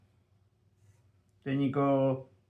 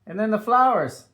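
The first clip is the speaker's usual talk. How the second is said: spelling out letters; 4 semitones lower, slower than usual. Shown as a demonstration. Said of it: "we wanna learn how to spell it".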